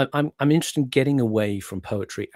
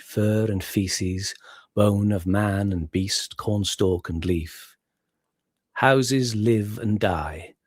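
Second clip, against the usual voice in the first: slow, measured verse with long pauses; solemn poem recital; slower than usual. Acted. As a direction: recite very slowly, line by weighted line. Recites Eliot.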